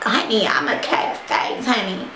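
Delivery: lightly camp, playful attitude; sassy diva voice. Real, not acted. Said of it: "I don't know why I'm talking like this".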